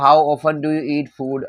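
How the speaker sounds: very slow, word by word; teacher's slowed-down model sentence; slow example sentence. Shown as a demonstration. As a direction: spell it out slowly for learners. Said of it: "जैसे मैंने बोला".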